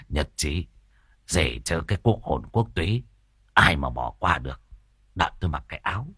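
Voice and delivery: low, soft, fawning man's voice; eager old man. Acted. Tam eagerly accepting Hòa's tripe invitation. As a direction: agree eagerly, mouth watering.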